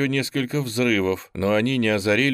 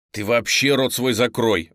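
blurted; 4 dB louder than usual. Acted. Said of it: "выпалил Сашка".

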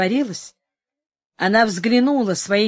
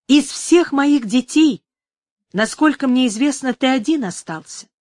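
put-on old woman voice; 3 dB louder than usual. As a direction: wheedle like a greedy old woman.

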